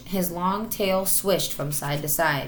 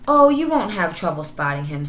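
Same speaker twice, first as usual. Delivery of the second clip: boastful; 6 dB louder than usual. Acted. Marmaduke boasting about uncle.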